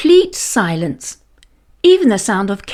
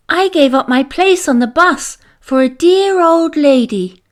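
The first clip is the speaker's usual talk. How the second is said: sweet chirp; 6 semitones higher than usual. A narrator's reading. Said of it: "chirped Beth sweetly".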